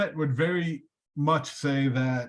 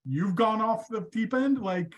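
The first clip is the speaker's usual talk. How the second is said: God exasperated; 6 semitones higher, slower than usual. Retold or imitated. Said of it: "God looks back".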